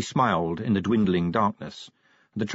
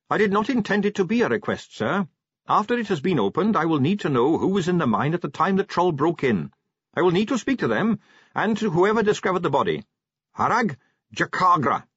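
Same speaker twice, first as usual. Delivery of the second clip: quick, firm and higher; firm insistence; 8 semitones higher than usual. Acted. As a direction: press the point without yielding. Carrot insists firmly.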